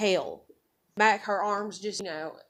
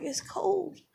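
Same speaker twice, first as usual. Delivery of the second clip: put-on high little-child voice; lightly voiced, high-pitched child; retold toddler voice; 10 semitones higher, 4 dB quieter than usual. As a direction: imitate a small girl in her sleep. Voices the sleep-talking daughter.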